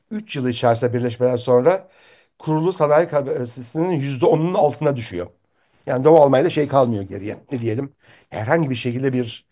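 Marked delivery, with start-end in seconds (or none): 5.9-9.5 hoarse voice. Real, not acted. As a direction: voice giving out, hoarse. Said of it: "pardon sesim yok".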